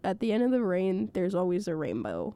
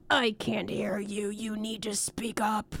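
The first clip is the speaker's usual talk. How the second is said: sassy; 3 dB quieter than usual. Retold or imitated. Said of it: "she was being a little bit sassy".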